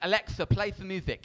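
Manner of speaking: put-on little-boy voice with a lisp. Parent retelling what their little boy said, imitating a little boy's lisp. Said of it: "my little boy with his little lisp".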